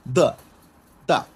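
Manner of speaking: short "দা" with an unaspirated d; pinyin d sound. Shown as a demonstration. Teacher demonstrating pinyin d to learners, short separate "দা". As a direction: say "দা" as one short syllable. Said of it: "ডি এর উচ্চারণটা হলো দা".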